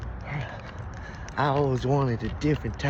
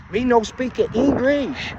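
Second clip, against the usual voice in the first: mock broken English; 8 semitones higher, slower than usual. Pretends not to speak English.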